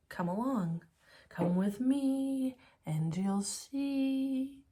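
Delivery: high, slow showman invitation; Willy Wonka voice. Pretend. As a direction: beckon like a whimsical host. Willy Wonka tour guide voice.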